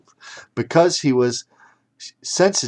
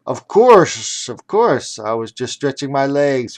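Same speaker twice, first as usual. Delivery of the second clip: hasty bluff; 3 semitones higher, 5 dB louder than usual. Acted. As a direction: cover up quickly and brightly. Wild bluffs to the ref.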